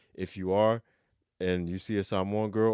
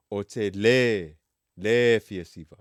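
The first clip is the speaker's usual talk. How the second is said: le said louder, E stressed; 6 dB louder, slower than usual. Shown as a demonstration. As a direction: lean hard on le. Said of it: "anytime you put a le in front".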